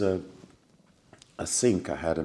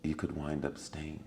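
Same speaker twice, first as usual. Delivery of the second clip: calm suggestion; 4 semitones lower, 11 dB quieter than usual. Retold or imitated. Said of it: "very calmly".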